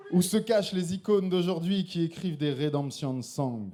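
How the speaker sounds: intense slam delivery; slam poetry. Acted. Slam poet declaiming his poem to the audience. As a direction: perform the poem with conviction.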